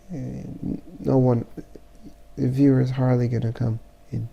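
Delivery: stuffy nose from the flu; blocked nose. Real, not acted. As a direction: talk through a blocked nose. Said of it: "it's 'cause I have the flu".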